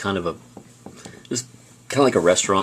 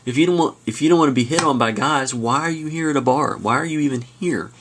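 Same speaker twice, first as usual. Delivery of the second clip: indignant pickup guy; 6 semitones higher than usual. Retold or imitated. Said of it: "he asks her".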